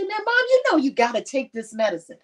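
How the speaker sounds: mock upset nagging at mom to take her medicine; upset scolding. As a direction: hurry her along, a bit irritated. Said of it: "I would get upset and I say".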